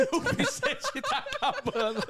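high, slowed, teasing through laughter; laughing teasing. Real, not acted. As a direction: tease him while giggling. Teasing friend while laughing.

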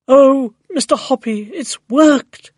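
high, loud, thrilled exclamation; crying out excitedly. A narrator's reading. Neighbour tells Mister Hoppy the magic worked, crying out excitedly. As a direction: cry it out in overjoyed excitement. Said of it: "she was crying".

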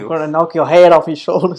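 badly faked Irish threat; terrible Irish accent. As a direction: do a hammy, unconvincing Irish accent. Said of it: "That was a terrible Irish accent".

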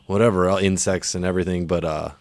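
recorded outdoors with open air; in an open field. Real, not acted. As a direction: outdoor sound, no room echo. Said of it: "basically in the middle of, like, a wildlife sanctuary".

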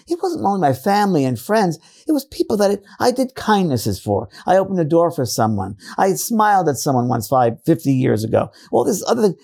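put-on British accent. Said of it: "this British accent that she had".

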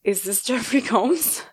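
slow, halting disbelief; barely gets the words out, awestruck; stunned and frozen. Retold or imitated. Fan on the phone with her idol, stunned. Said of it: "When I finally was able to speak".

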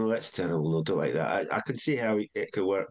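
lightly imitated Scottish accent. Comedy head turning down a pitched idea, imitated Scottish accent. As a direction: retell it with a touch of Scots. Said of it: "wondering why I was doing that accent".

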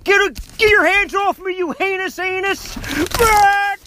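angry boss voice. Acted. Angry boss on phone skit.

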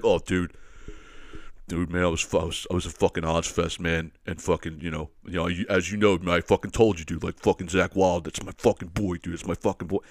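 lightly voiced stoner fan, adoring his idol; mild mock metal bro devotion; metalhead dude. Guy explains the black eye.

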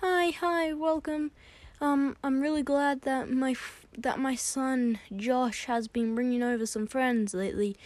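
high, gushing welcome; friend's mum. Acted. His mum greeting her son's friend, high and gushing. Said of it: "his mum was like".

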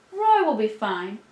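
put-on slow, lightly quavering old man; quavery voice. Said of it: "Jonas said in his quavery voice".

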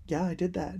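soft, offhand imitation of an oblivious hero; nonchalant. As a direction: toss it off quietly, unbothered. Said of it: "so nonchalant".

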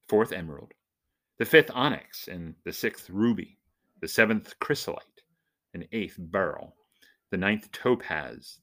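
measured, solemn scripture reading; dramatic reading. Acted. Vlogger reads Revelation to his viewers, dramatic reading. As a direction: read it like a revelation unfolding, each image weighed. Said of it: "This is a dramatic reading of Revelation".

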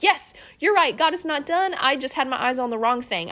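retelling her reply to a friend, eager and lifted; renewed faith. Retold or imitated. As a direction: bounce back into hope. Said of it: "And I was like".

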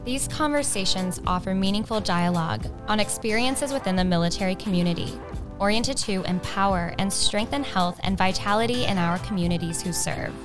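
polished host welcome read; measured intro read; scripted podcast intro. Acted. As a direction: introduce the show like an announcer.

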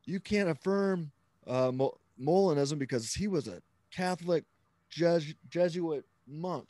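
lightly mimicked protest; mock objection. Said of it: "people who aren't Catholic will say".

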